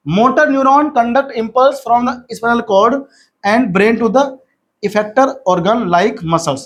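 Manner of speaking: very slow, word by word textbook reading; slow dictation reading. Acted. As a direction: read it out slowly so students can write. Reads textbook definition slowly.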